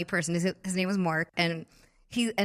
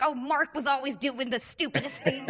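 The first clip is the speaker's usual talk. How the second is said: higher voice with laughter in it; imitating laughing mom; 4 semitones higher than usual. Mom recalls her son's antics, imitated laughing. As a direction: laugh through a fond complaint. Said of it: "She starts cracking up laughing".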